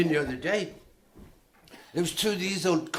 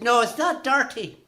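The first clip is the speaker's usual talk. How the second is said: put-on high old woman voice, lightly done; old Cornish woman; 7 semitones higher, 4 dB louder than usual. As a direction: answer like the granny, indignant. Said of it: "She said".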